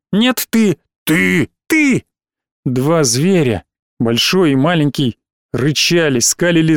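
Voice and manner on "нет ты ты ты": put-on childish yelling. Childish quarrel.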